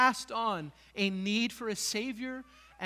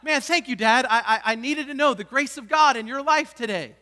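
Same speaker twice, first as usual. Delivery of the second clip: loud mock-grateful child voice, laughing; mock pious gratitude; sarcastic kids; 5 semitones higher, 12 dB louder than usual. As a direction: kids thanking dad with irony. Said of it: "they're going".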